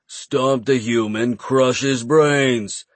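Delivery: slow goblin urging; goblin driver. Acted. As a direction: drag it out, goblin voice. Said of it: "the goblin driver urged".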